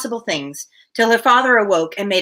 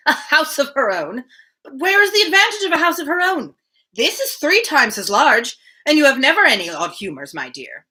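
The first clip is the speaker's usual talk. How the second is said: put-on higher, fussing old man, baffled; a worried father who can't see the point; fretful old father; 6 semitones higher than usual. Mr Woodhouse fussing to Emma about a house, higher and fretful.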